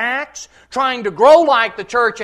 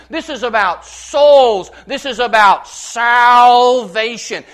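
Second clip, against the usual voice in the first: rising preacher's cry; 7 dB louder than usual. Real, not acted. Preaching climax on sin and souls.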